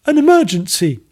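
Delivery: high, loud, stern lady scientist. Acted. Maggie announces the emergency, stern and high. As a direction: snap it out like an urgent order. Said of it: "she said sternly".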